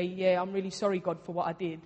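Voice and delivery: offhand, routine apology; casual apology. Acted. Praying a routine sorry to God, casual apology. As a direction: say sorry as a matter of course. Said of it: "then there's times where you're just like".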